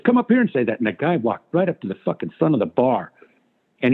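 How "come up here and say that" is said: retold challenge to heckler. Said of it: "And Joe goes".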